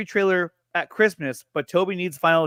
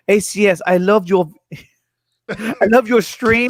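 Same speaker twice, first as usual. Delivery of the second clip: a weak, slowed attempt at a British accent. Streamer to Fatma, reading her message in a poor British accent. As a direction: stumble into a half-hearted British accent. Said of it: "in a British voice".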